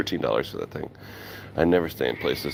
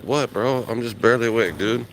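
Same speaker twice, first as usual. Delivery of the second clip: higher mock bro voice, half-asleep; groggy bro quote; 7 semitones higher than usual. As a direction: play the sleepy dude getting pestered. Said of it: "I was like".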